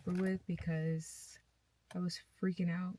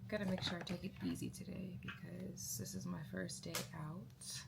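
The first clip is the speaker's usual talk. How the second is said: whispering; 6 dB quieter than usual. Real, not acted. Tired after surgery.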